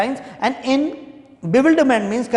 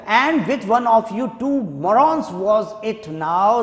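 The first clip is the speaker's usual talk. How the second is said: mock angry. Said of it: "The governor is shouting at these two prison officers".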